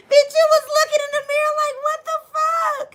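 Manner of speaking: high, loud, fast laughing talk. Real, not acted. Cracking up while describing the mirror moment.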